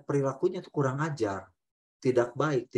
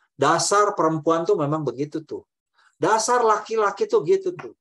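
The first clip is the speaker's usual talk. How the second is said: scornful generalizing; 3 semitones higher, 4 dB louder than usual. Shown as a demonstration. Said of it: "Itu semua digeneralisasi".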